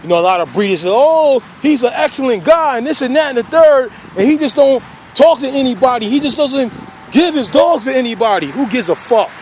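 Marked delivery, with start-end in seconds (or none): 0.9-8.5 higher-pitched retelling of breeders' gushing; mock breeder praise. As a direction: imitate breeders talking someone up, voice lifted. Retelling what other breeders say.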